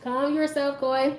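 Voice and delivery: high, sustained self-soothing voice; calming herself. Retold or imitated. Woman coaching herself not to snap back, high-pitched self-calming. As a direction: talk yourself down in a thin high pitch. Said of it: "so I'm calming myself".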